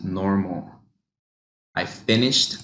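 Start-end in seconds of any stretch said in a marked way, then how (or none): 1.7-2.5 I finished with I lifted; raised I. Shown as a demonstration. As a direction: lift the word I. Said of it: "raise it".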